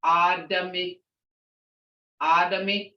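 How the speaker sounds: Adami with ah then uh. Shown as a demonstration. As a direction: say Adami evenly. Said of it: "a ah here and a uh here".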